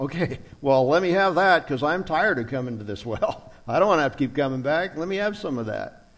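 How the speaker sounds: mock sarcastic tone. Speaker acting out the woman at the well answering Jesus, mock-sarcastic. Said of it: "there's almost that tone of sarcasm".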